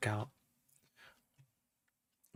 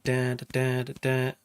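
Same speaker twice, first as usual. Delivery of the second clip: muted bass imitation. Shown as a demonstration. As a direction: mimic a palm-muted bass line. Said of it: "to sound like".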